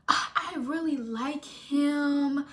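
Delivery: mock infatuation. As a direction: gush slowly, imitating a friend suddenly smitten. Mimics friend's sudden change of heart.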